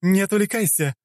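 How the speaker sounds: высокий резкий окрик; прикрикни на соперницу; прикрикнула. Acted. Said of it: "прикрикнула на неё Клео". (высокий окрик царицы)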